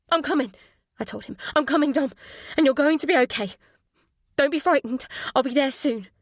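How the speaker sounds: urgent reassurance. Acted. Mother reassuring frightened son.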